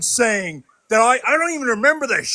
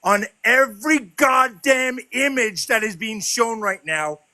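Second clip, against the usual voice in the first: angry shout. Real, not acted. Furious rant at the stream crew.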